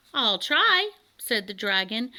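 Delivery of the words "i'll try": high, proud, eager little reply; puffed up with importance. Acted. Dragon answering Elmer, puffed up and proud. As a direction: swell up and say it proudly. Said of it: "puffing up with importance".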